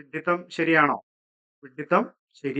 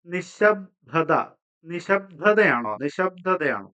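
നിശബ്ദത drawn out very slowly; slow spelled-out option; much slower than usual. Shown as a demonstration. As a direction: read നിശബ്ദത syllable by syllable. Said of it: "ഇത് തെറ്റായിട്ടുള്ള ഉത്തരമാണ്".

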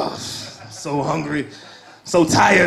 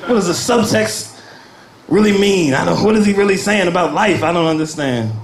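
much higher, eager, flustered pleading voice; a confused theatregoer calling out for help, higher and laughing; desperate Shakespeare fan; 3 semitones higher than usual. Retold or imitated. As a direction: beg for an English major like it's an emergency. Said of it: "one day I just wanna hear someone say".

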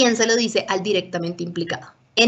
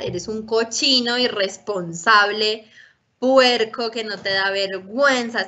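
scolding insult; slower than usual. Shown as a demonstration. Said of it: "todo eso son rótulos, son etiquetas y son juicios".

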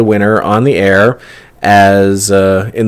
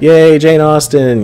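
bright, high little cheer; excited cheer; 7 semitones higher, 3 dB louder than usual. Real, not acted. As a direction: cheer the name with delight. Cheering the new contest theme.

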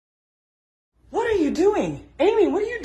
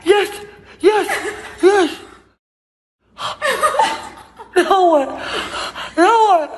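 triumphant shouting; 2 semitones higher, 5 dB louder than usual. Real, not acted. Triumph in the game.

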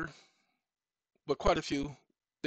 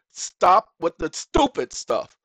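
louder and slow, each word hammered; fed-up retort; 3 semitones higher, 9 dB louder, slower than usual. Acted. Telling the court to drop the stupid stuff, fed up. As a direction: slap down the nonsense. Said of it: "That's me saying".

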